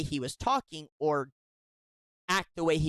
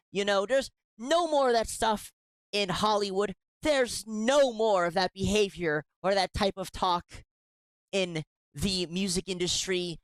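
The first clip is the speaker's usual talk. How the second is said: sarcastic; 4 semitones higher than usual. Acted. Sarcastic praise of Me Too.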